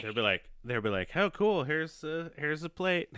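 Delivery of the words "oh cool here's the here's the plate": high, chirpy fake welcome; put-on cheerful host. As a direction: play forced politeness in a high voice. Kids faking cheer for the guests.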